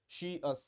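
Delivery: "she, us" as two separate words; split into two pronouns. Shown as a demonstration. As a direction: break the ending into "she" and "us". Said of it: "ये दो प्रोनाउंस के तौर पे".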